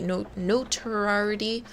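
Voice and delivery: "notoriety" said as noh-tuh-RYE-uh-tee; careful pronunciation. Real, not acted. Streamer finally getting "notoriety" right while reading aloud. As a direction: sound out "notoriety" slowly and fully. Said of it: "I know this word, I just don't say it out loud".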